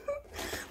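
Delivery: shrill giggle in character; high-pitched diva giggle; high squealing laugh. Acted. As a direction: squeal with delight.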